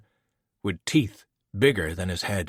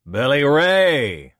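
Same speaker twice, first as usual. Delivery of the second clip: high, slow, drawn-out call of a name; Billy Ray said in Voke's usual high voice, no accent; 6 semitones higher, 7 dB louder, much slower than usual. Acted. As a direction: call him by name, measured and mocking. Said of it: "What happened to the accent?".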